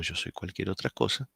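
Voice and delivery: voiceless whisper of an inner thought. Retold or imitated. Lecturer voicing a thought nobody says aloud, whispered. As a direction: breathe it out like a thought kept to yourself.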